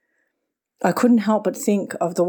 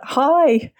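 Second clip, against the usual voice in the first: put-on high, ringing toddler "Hi!"; ringing child's call; 7 semitones higher than usual. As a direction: let "Hi!" ring out like a small child. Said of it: "this little one's voice ring out".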